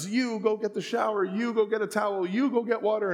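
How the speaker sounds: drill-sergeant commands. Retold or imitated. Dad ordering his kids around like a sergeant. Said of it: "I was like a sergeant".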